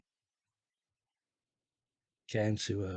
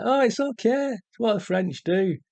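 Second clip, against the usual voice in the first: mock French lover; 11 semitones higher, 6 dB louder than usual. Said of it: "so he's like".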